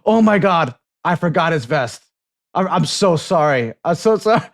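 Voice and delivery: apologizing to the staff for the missing vest, in mock panic; fake apology. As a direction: overplay the sorry blind guy. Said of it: "I was like".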